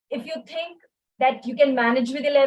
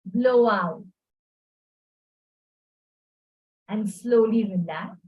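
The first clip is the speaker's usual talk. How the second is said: calm breathing cue; 2 semitones lower than usual. Shown as a demonstration. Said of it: "So let's slow down".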